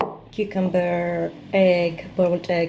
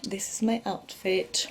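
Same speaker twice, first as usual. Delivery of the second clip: whispering; 7 dB quieter than usual. Real, not acted. Showing outfit quietly.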